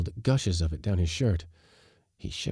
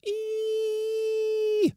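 thin squeal like steel on steel; high shriek. A narrator's reading. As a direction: hold a piercing, very high "ee". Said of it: "shrieked the high sound of steel".

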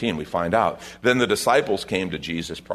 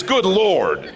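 "Good Lord" blurted higher and louder, exasperated; 10 semitones higher, 6 dB louder than usual. Shown as a demonstration. Preacher showing how he'd say it, loud and exasperated. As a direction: throw up your hands on "Good Lord". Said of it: "What I say is".

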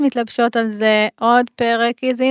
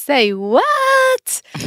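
shocked Say what; 12 semitones higher than usual. Retold or imitated. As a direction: squeal it in disbelief. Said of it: "אני אהיה כזה". (הלם מוחלט)

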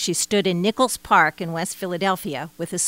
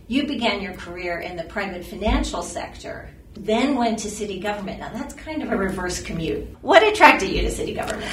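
far from mic. Real, not acted. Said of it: "so I sound a bit off mic".

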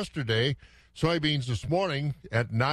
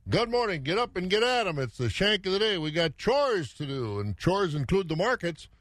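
upbeat morning host; 5 semitones higher than usual. Real, not acted. Cheery morning radio wake-up call.

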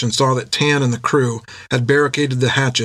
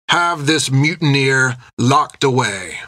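bristling anger; 2 semitones higher, slower than usual. A narrator's reading. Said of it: "bristled with anger".

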